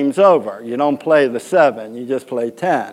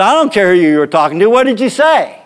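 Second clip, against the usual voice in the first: insistent umpire, rising to a high demand; mock yelling; 4 semitones higher, faster than usual. Umpire demands the pitcher repeat it, mock-angry. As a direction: imitate an umpire demanding an answer. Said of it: "we're yelling".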